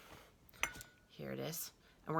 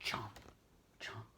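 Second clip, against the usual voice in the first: lower, whispered snapping bites; whispered chomps; 7 semitones lower, 11 dB quieter than usual. Acted. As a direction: bite the words off softly. Tiger eating sound.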